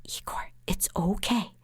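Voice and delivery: hushed, unvoiced reassurance; calm him down in a whisper; soothing whisper. Lawyer whispering to calm her client in court. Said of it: "I'd go".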